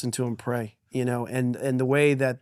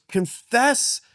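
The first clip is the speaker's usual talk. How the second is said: father leading prayer; 7 semitones higher, slower than usual. Retold or imitated. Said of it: "And he goes".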